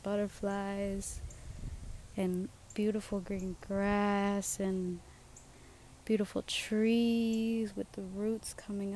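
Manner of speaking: slow, hushed and dreamy. Real, not acted. Podcaster on her swing describing nature, slow and hushed. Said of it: "I'm currently on my swing".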